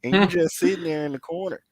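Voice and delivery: high-pitched, worked-up calling out; exasperated yelling. Retold or imitated. Viewer urging wrestler to help his partner, exasperated yelling. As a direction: holler in disbelief at a useless teammate. Venting at a lazy tag partner.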